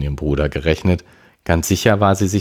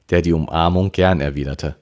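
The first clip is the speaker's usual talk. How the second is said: ordinary delivery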